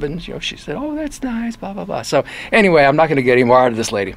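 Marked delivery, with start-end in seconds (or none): 0.8-2.0 dismissive. Retold or imitated. Yoko brushing off the DJ.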